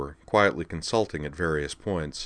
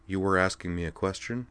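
placid; 3 dB quieter than usual. Acted. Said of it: "she said placidly".

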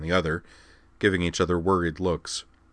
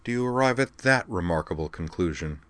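cool. Acted. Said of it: "she inquired coolly".

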